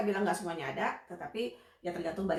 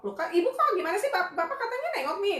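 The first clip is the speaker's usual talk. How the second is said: heran; 11 semitones higher, 5 dB louder than usual. Acted. Acts out querying the parents.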